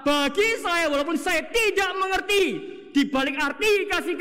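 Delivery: preaching shout. Real, not acted. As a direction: drive the point home to the congregation. Preacher climaxes his point.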